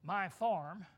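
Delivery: slow, drawn-out solemn swearing; mock oath-swearing. Preacher mocking a farmer who swears by his things, slow and solemn. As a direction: ham up a man swearing by everything he owns. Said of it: "Instead of saying".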